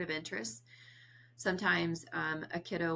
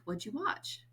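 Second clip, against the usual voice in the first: modelled question; 5 semitones higher than usual. Shown as a demonstration. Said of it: "I think they want you to say".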